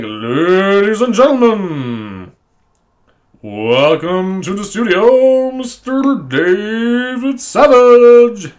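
slow, booming announcer introduction. Pretend. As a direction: stretch every word like a ring announcer. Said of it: "I want him to be like".

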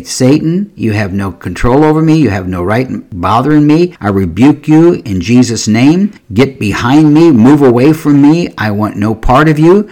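stern, emphatic rebuke with lifted pitch; firm rebuke of Satan. Acted. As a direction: order the devil away with authority. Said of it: "We need to say".

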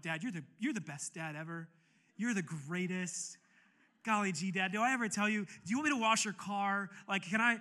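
mock-gushing son thanking his dad; gushing gratitude. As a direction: lay it on thick like a grateful kid.

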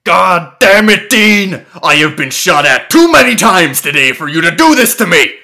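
loud, fast, fed-up rant; exasperated shout. Acted. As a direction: blow up at him, fed up. Sam exasperated at brother.

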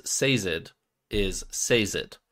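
Sazed said as "SAY-zed"; audiobook pronunciation. Shown as a demonstration. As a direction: say Sazed like British "say zed", stressed on SAY. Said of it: "the way the audiobook says".

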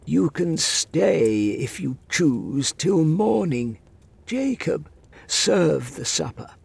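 put-on high, slow commanding old voice; stern old man. A narrator's reading. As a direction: grant it coldly, then command. Master grants stay, orders servant.

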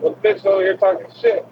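high, fast sassy retort; snippy comeback. Retold or imitated. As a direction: fire it back with attitude. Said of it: "And I'm like".

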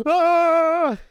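sudden high yell that clips the mic; clipping. Acted. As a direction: blast a yelp right into the mic. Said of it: "Sorry, I'm clipping".

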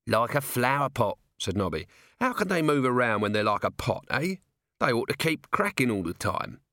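a hint of a baffled, chatty guard; lightly voiced puzzled watchman. Watchman puzzling over clay golems, lightly voiced wonder. Voices Nobby, a story character.

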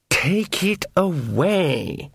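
slow, grand and haughty; lordly horned god. A narrator's reading. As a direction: speak as a bored ancient king. Horned king recoils from iron.

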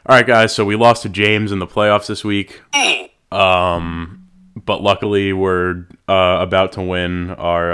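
hyped host voice. Shown as a demonstration. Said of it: "it'd go something like this".

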